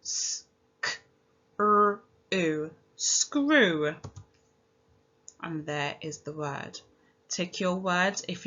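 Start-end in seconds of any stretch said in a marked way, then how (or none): 0.0-4.0 S and k breathed, then r, u, blended into screw; sounded out. Shown as a demonstration. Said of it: "let's pinch our sounds".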